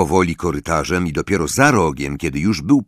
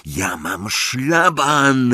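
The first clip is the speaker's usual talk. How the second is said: restrained storyteller's roar, pitched up; roaring after her; 6 semitones higher, much slower than usual. A narrator's reading. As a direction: call it after someone, stretching the words. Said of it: "ryknął za nią Harry".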